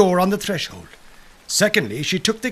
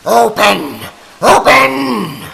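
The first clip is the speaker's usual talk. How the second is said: witches screaming; 3 semitones higher, 9 dB louder, much slower than usual. A narrator's reading. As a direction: scream it at the door like furious hags. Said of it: "they screamed".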